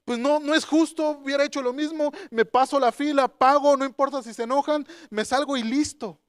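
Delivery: acting out a petty, fed-up complaint; retold annoyance. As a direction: protest the unfairness, mock huffy. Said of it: "me enojé y dije".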